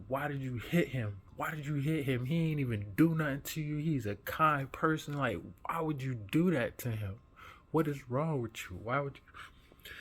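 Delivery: put-on to the bully over the crying kid, angry; retold furious confrontation. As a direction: scold the bully, demanding answers. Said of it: "I'm sitting there furious".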